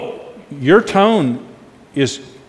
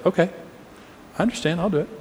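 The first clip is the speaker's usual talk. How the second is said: first way; 10 dB quieter, much faster than usual. Shown as a demonstration. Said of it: "here's my first way I'm gonna say it".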